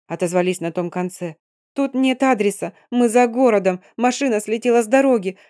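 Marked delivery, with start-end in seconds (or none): 1.7-5.4 lost and flustered on the phone; bewildered. Acted. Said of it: "растерянно произнесла я".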